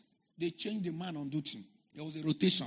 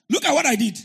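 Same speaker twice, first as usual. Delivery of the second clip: laughing exclamation; 5 semitones higher, 14 dB louder, faster than usual. Shown as a demonstration.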